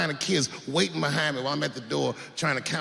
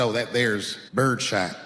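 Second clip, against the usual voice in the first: slow, low country drawl; drawling clerk; 7 semitones lower, slower than usual. Retold or imitated. Gun clerk drawling to a clueless customer, slow and low.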